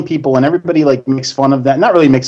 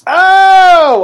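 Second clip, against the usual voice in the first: mock shock; 5 dB louder than usual. Real, not acted. Reacts to joke.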